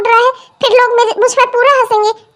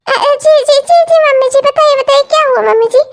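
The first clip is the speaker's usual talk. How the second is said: flustered eager reply; 4 semitones higher than usual. Acted. Flustered elder bride answers.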